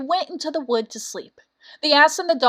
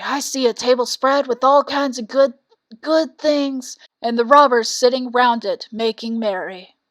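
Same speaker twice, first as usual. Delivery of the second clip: eager donkey voice; 5 dB louder than usual. Acted. Ass describes the robbers.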